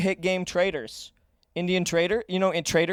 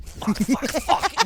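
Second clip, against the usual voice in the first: frustrated; 9 semitones higher, much slower than usual. Acted. Frustrated potter smashing vase.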